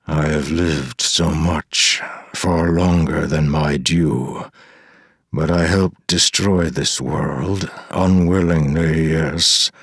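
put-on slow, tired old immortal; a hint of a grim reaper; weary ancient voice.

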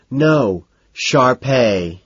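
lisping "Sharpei", second syllable drawn out; lisping correction. A narrator's reading. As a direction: correct it with a lisp, leaning on the end of "Sharpei". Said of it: "he says, lisping".

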